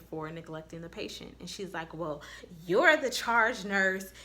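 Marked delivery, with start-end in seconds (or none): 1.9-4.1 sarcastic. Retold or imitated. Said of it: "she was being real sarcastic".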